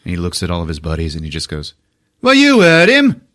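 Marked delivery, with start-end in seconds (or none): 2.2-3.2 laughing rally cry. Acted. Prisoner leader to his buddies, loud laughing rally. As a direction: whip the crew up, half laughing.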